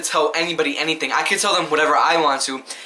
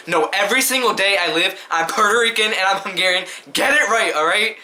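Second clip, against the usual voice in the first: frustrated, slightly higher insistence; real frustration; 3 semitones higher than usual. Real, not acted. Insisting on both heritages to doubters, frustrated. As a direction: set them straight, fed up. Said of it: "like, really frustrated".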